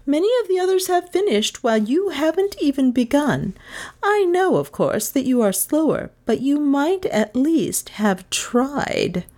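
high-pitched, emphatic scolding; teacher rebuking. Acted. Miss Todd to pupil who hasn't begun, rebuking. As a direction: scold high, slowing on the final clause.

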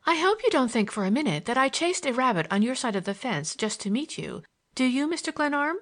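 playful challenge in a lightly put-on girl's voice; teasing girl.

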